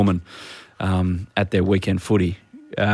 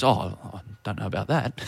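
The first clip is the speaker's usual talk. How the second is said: blank reply; 7 dB quieter than usual. Retold or imitated. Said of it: "looked at me blankly and goes".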